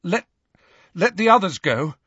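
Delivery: high-pitched, urgent bargaining; desperate. A narrator's reading. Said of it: "said Harry desperately".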